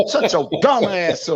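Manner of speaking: slow, low mock of his rival's deep voice. Mocking the other debater's deep voice, slow and low. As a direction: drag it out like a fake tough guy. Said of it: "with that deep voice".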